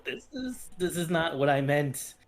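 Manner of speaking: high whining cat complaint; whiny cat voice. Acted. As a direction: whine it like an upset cat. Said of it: "He lets out whiny cat noises".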